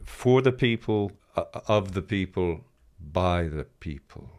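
Osho. Retold or imitated. Retelling a guru's talk on democracy, slow guru manner. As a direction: space out each phrase, lightly imitating a guru. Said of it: "talks very slowly, takes his time".

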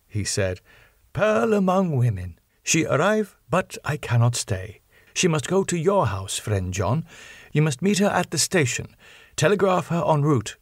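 put-on an eager old scholar giving urgent orders; Van Helsing voice. Professor instructing friend John, lightly voiced and eager.

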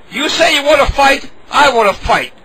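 lightly put-on Irish accent; a hint of Irish brogue. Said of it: "what are you, a fucking Irish?".

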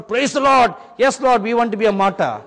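put-on loud high cry of two excited boys; retold joyful shout. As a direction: shout it out like eager children praising God. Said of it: "and they shouted".

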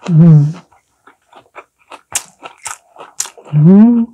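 humming while chewing food; closed lips, chewing wrap; mouth full, chewing. Real, not acted. Seen 0: Wrap put in mouth at -2; closed-mouth chewing through labelled words.

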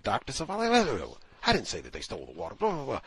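attitude. Retold or imitated. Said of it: "she got, like, an attitude".

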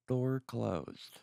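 robot voice. Acted. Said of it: "I'm the Tesla, and I go".

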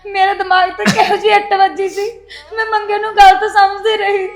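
tearful sobbing confession; crying. Acted. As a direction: speak through tears. Daughter weeps to her father. (ਰੋਂਦੀ ਹੋਈ)

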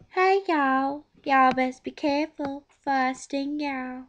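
a lightly voiced bee warning he'll sting; Talking Bee impression. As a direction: kid lightly imitating a bossy cartoon bee. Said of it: "he sounds like this".

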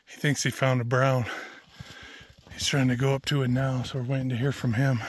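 out of breath after the climb; panting between words; heavy breathing. Real, not acted. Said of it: "Excuse the heavy breathing".

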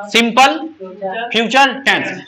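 each word set apart slowly; slow model answer. Shown as a demonstration. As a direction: say it slowly so the class can copy it. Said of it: "हाँ, ऐसे बोलेंगे". (धीरे-धीरे, साफ़ बोलकर समझाना)

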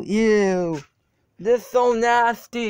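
recoiling at something gross; disgusted. Real, not acted. Stepping into mud.

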